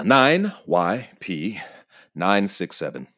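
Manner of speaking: spelled out very slowly, letter by letter; slow spelling out. Acted. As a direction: drag out each letter.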